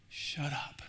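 unvoiced whisper, hushing; whispered shut up. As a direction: breathe it like a secret command. God telling him to hush.

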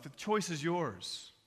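slow, full-voiced declaration; measured preacher's appeal; solemn challenge. Real, not acted. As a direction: lay the decision before them deliberately. Preacher's challenge, then hushed repeat.

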